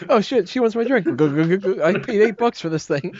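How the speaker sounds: a hint of a panicky fan; frat bro. Acting fan protecting his drink.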